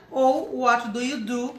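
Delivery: slow, clear model question; deliberate classroom drill; slow teaching model. Shown as a demonstration. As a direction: say it slowly for the class. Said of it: "Vamos voltar aqui".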